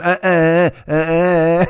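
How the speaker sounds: put-on child panting at spicy food; loud, drawn-out uhs with tongue out; imitated mouth-burn noises. Comic imitating a child eating spicy food, mock burnt-mouth noises. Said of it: "A child who had spicy food for the first time".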